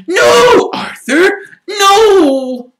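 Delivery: very high, loud, frantic shriek. Acted. Wife begging her husband to stop fighting, shrieking. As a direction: scream at him to stop. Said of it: "Missus Weasley was shrieking".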